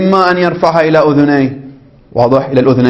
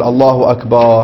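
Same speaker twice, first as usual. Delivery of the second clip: تكبير بطيء; 3 semitones lower, slower than usual. Shown as a demonstration. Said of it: "هل تقول".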